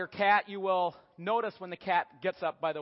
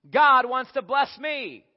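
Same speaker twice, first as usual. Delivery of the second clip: high, loud, slow self-importance; self-centred cat; 4 semitones higher, 8 dB louder, slower than usual. Acted. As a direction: proclaim your privilege loudly and slowly. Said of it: "Cats think".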